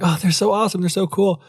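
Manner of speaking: mock gushing. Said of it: "I'm like".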